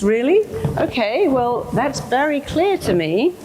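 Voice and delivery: questioning "Really?" easing into mild acceptance; agreeable brain. Acted. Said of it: "then your brain goes".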